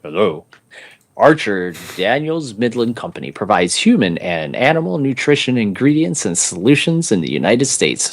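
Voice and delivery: booming fighting game announcer. Shown as a demonstration. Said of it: "let me get my announcer voice".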